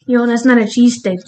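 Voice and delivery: lightly imitated Philly local; mild mock Philly objection; attempted Philly accent. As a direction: have a half-hearted go at Philly accent. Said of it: "Whatever they say".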